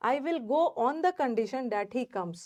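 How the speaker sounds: very slow, each word laid out for the class; slow explaining. Shown as a demonstration. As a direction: spell the sentence out slowly for students. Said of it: "teacher spells out the meaning". (धीरे-धीरे समझाते हुए)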